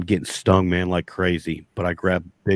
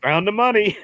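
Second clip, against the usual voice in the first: triumphant; 14 semitones higher, 4 dB louder than usual. Retold or imitated. Triumphant punchline after being pulled out.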